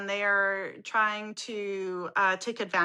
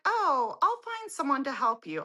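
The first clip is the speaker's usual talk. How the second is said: higher-pitched imitation of a receptionist; desk receptionist; 5 semitones higher than usual. Girl at the desk to waiting customer, mock-helpful.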